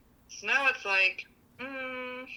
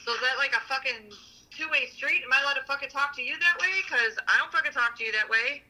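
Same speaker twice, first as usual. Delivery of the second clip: heated, fast, higher-pitched comeback; angry retort; 6 semitones higher than usual. Retold or imitated. Imagined comeback to her partner, heated and higher. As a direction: fire it back at him, raising the pitch. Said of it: "What I wanted to answer him back was".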